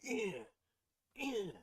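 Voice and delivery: high, loud dramatic eh sounds; mock dramatic anime grunt. Mocking slow dramatic anime to his friend. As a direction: ham up a dramatic anime pause. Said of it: "It's not a lot of this".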